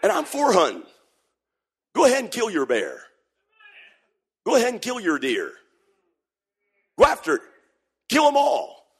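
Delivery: mock rowdy hunter, high and pushed; egging the boy on like a rowdy hunter dad; hunting dad.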